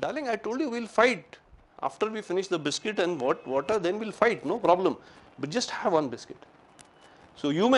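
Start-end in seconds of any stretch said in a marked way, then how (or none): 0.1-6.5 soothing darling. Pretend. Soothing the angry wife.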